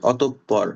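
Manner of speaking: অতঃপর said as otop-por, p doubled; অতঃপর: hold the p double after oto; অতঃপর with a clear double p. Shown as a demonstration. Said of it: "পটা double হবে".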